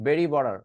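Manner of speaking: "বেরি বর্ডার" with both Ts tapped; flap T. Shown as a demonstration. Teacher joining the two practice words, flap T. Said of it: "বটারকে বলা যায় বর্ডার".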